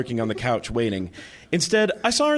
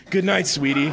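purred; 2 semitones higher than usual. Acted. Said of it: "Passion purred".

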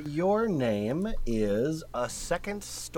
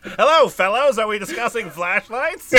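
nerdy voice; 5 semitones higher, 8 dB louder than usual. Pretend. Mock nerd greeting.

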